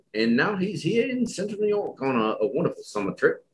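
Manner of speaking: high, fast showman intro; announcer flourish. Acted. Host presenting the guest's trip, excited announcer. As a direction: introduce him like a game show host.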